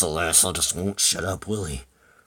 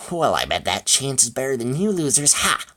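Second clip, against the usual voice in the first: loud, higher taunt with a crowing "Ha!"; cocky, raised voice ending in a sharp high laugh-word; boastful taunt; 5 semitones higher, 5 dB louder than usual. Acted. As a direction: crow over the losers. Eddie taunts the others in story.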